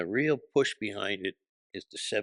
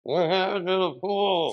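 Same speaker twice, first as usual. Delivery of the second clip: higher, louder repeat of the heckle; higher heckling shout; 11 semitones higher, 6 dB louder than usual. Retold or imitated. Heckler repeats the question louder, insistent shout. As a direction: yell it again, pushing harder. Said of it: "He looks at me and he goes".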